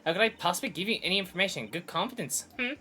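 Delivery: high, put-on sassy witness voice; high teasing character voice with little hums; high-pitched Miss May. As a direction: taunt the lawyer in a high, put-on voice.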